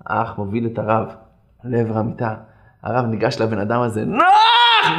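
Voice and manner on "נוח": high, drawn-out acted cry; joyful greeting. Rabbi rushing up to embrace the lonely patient, high joyful cry. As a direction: call out to long-lost family.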